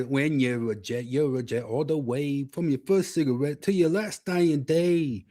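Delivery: put-on slow New York gang-kid recital; New York accent. Shown as a demonstration. Co-host quoting West Side Story, slow New York accent. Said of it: "That's a New York accent".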